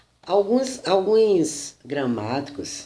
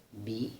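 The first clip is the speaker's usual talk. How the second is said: bi said alone and softer as the stressed syllable; 3 semitones lower, 11 dB quieter than usual. Shown as a demonstration. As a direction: isolate the syllable bi. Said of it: "na segunda sílaba".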